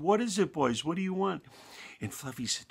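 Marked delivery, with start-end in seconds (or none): 0.0-1.4 amused shepherd. A narrator's reading. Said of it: "he laughed and he said".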